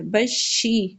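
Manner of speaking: بشی as "bash-shee" with a clear i; بشی with doubled sh and close i; correct zer. Shown as a demonstration. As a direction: hold a pure ee in بشی. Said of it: "شین کے نیچے زیر ہے".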